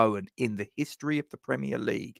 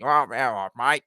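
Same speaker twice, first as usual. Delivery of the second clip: put-on Eddie Jones Aussie accent. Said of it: "a little bit Eddie Jones".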